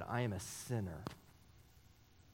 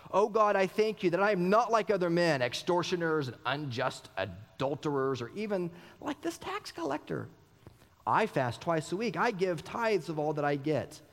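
proud Pharisee; 3 semitones higher than usual. Acted. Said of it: "The Pharisee, standing by himself, prayed thus".

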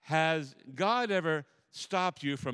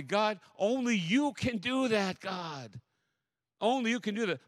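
prayerful plea; 6 semitones higher than usual. Shown as a demonstration. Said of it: "we gotta say".

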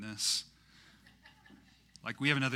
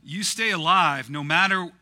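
put-on higher, louder movie-hero plea with an English accent; light English-accent imitation, raised voice; Hawkeye in English accent; 6 semitones higher, 13 dB louder than usual. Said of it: "say it in an English accent".

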